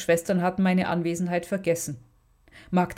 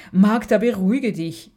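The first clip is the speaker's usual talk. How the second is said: louder, pleading to calm her down; imploring call; 3 semitones higher, 5 dB louder than usual. Acted. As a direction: beg her sister to calm down. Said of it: "rief Alexandra beschwörend".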